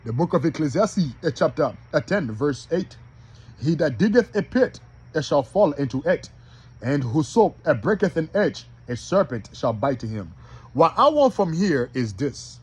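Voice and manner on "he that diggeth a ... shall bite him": measured reading broken into short phrases; slow rereading. Shown as a demonstration. Preacher rereads for brothers who are slow, measured. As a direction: take the verse piece by piece. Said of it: "I'm gonna read that again slow".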